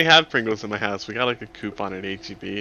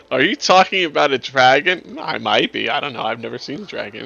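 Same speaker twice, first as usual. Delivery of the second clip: put-on old lady voice; 2 semitones higher than usual. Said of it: "Did I do a good old lady voice?".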